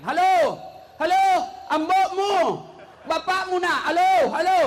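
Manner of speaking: shouting into phone. Retold or imitated. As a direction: yell halo into a dead phone.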